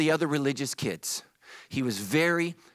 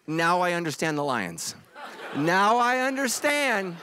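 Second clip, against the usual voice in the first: laughing realization. Pretend. Joke about lusting after zebra.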